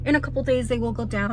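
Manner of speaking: words thick from a mint in mouth; talking funny. Real, not acted. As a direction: talk around a mint, lips numb. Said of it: "I'm talking funny".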